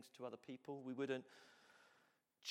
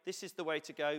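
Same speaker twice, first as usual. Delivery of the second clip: loud and insistent, pitch up; pushy charging-in voice; 4 semitones higher, 12 dB louder than usual. Retold or imitated. Preacher mocking someone charging in, loud and insistent. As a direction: bulldoze ahead, sure you know best. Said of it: "Not charging in and going".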